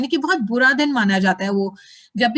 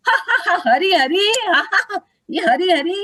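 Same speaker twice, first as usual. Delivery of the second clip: a mock jeering laugh, pitched up; mocking laughter; 5 semitones higher than usual. Scornful shore watchers mock the bathing devotees, laughing. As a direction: sneer and laugh at the chanters. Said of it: "they were laughing".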